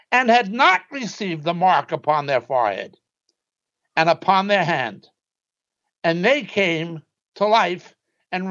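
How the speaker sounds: solemn, measured reading of scripture. Acted. Preacher reading Revelation aloud to his congregation, solemn and measured. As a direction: read the verses out like holy writ.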